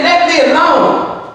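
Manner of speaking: slow, deliberate, a hint of God's stern voice; God's stern command. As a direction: lightly voice God pushing Moses away. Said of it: "He said".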